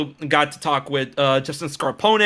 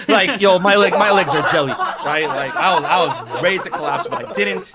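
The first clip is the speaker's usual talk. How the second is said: laughing; 2 semitones higher than usual. Real, not acted. Laughing about shaky legs.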